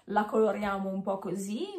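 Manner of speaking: talking with a retainer in; speaking around a dental retainer; wearing a retainer. Real, not acted. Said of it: "Mi presento con l'apparecchio".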